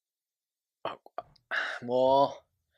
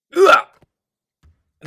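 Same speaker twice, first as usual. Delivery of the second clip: sudden loud yelp of shock; shocked yell; 20 dB louder than usual. Real, not acted. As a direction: blurt it out in a startled yell. Shot misses at crucial moment. (驚いた叫び声)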